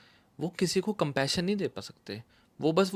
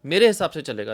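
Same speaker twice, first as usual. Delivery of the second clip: father's firm no; 7 dB louder than usual. Retold or imitated. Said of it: "वो कहते थे".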